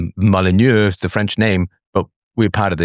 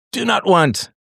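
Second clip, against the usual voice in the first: high squeaky meme cry of do not want; mock whiny refusal; 13 semitones higher, slower than usual. Refusing the inheritance, mock squeal. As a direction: squeal it like a cartoon protest.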